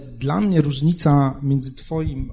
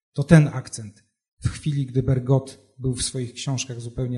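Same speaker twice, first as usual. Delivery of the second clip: measured, deliberate reading of a literary passage. Acted. Translator reads his Proust passage aloud, measured literary reading. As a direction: read the prose aloud with care for its rhythm.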